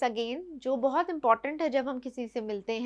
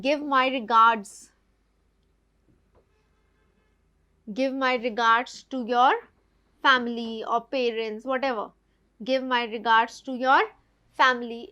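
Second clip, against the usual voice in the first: slow, louder, caring regards; caring and concerned; 5 dB louder, much slower than usual. Shown as a demonstration. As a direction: sound concerned for them. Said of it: "बहुत ही अच्छा sound करता है". (आदर और परवाह से, धीरे धीरे)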